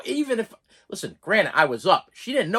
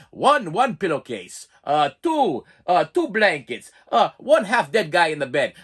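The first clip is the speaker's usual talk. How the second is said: slow, louder, deliberate counting; counting nurse; 4 dB louder, slower than usual. Retold or imitated. Lightly voiced nurse counting pillows aloud in the room, slow and louder. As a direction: tick items off slowly like a clerk.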